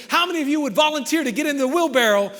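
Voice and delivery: loud, high call to the crowd; rousing challenge. Acted. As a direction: call for volunteers over the cheering. Daredevil challenges the roaring crowd.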